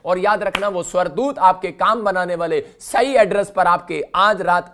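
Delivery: loud, forceful sermon declaration; rallying preaching. Real, not acted. Preacher rallies the congregation.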